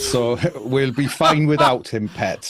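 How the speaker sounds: put-on light Geordie accent, a bit slow; a playful Newcastle local, pet. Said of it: "working on my Geordie accent".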